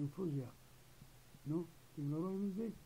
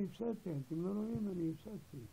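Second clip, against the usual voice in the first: mild mock yell, quick and higher; retold shouting; 4 semitones higher than usual. Patient protesting his stock losses to onlookers, mild retold shout. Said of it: "לא, למה אתה צועק?".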